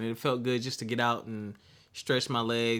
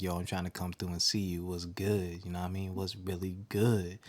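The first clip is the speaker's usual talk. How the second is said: low smooth after-dark voice; low and smooth like late-night radio; 4 semitones lower than usual. Pretend. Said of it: "to now this".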